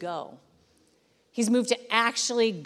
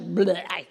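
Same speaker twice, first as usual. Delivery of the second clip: emotional bleh; 3 semitones lower than usual. Retold or imitated. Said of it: "this very emotional, like".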